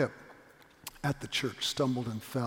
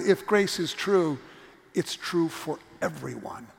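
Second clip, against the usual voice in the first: louder, slow "If grace is true"; emphatic; 4 dB louder, slower than usual. Real, not acted. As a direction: proclaim it firmly. Preached refrain.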